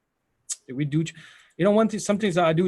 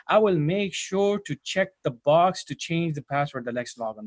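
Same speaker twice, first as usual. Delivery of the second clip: confident interview answer. Shown as a demonstration. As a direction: say it like a pro in an interview. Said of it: "why would you talk like this".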